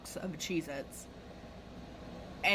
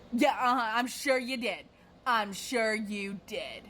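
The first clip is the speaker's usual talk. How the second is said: mock sceptical customer, slowing on the repeat; retold scornful agreement; sarcastic disbelief. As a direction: dismiss the excuse with heavy sarcasm.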